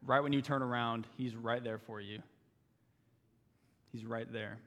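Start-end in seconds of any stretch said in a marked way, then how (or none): 1.2-4.6 soft reassurance. Real, not acted.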